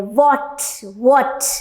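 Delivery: "What" started with a v sound; v-sound demonstration. Shown as a demonstration. Teacher drilling the first syllable of "What", v-sound demonstration. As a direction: open the mouth and begin "What" on a v. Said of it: "वी sound को हमें pronounce करना है".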